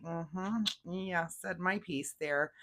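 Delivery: mildly self-satisfied, drawn out slowly; slow, understated acting of contentment; a little satisfied. Taurus after getting a word in, mildly satisfied. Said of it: "feeling a little satisfied".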